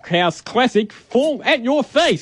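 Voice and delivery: radio announcer voice. Shown as a demonstration. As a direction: pump it up like breakfast radio. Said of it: "I wanna hear what you sounded like on air".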